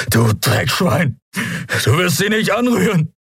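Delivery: high, furious, spat out; furious outburst. A narrator's reading. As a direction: protect her at any cost.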